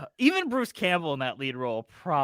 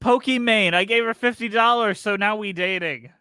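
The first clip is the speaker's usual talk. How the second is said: louder, higher dopey caveman talk; 5 semitones higher, 5 dB louder than usual. Retold or imitated. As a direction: grunt it out like a dim caveman. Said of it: "what accent are we doing".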